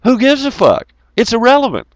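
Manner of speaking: mock exasperated yell; exasperated outburst. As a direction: throw up your hands at the absurdity. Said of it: "And I said".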